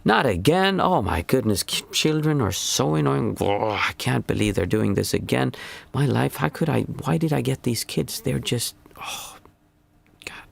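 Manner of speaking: mock a fed-up parent wallowing; exaggerated whine of a put-upon mother; whiny self-pitying parent. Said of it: "reacted with me going in".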